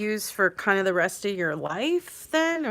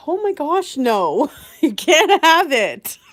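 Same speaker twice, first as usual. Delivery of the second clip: laughing mock-panic; 5 semitones higher, 10 dB louder than usual. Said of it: "It's like".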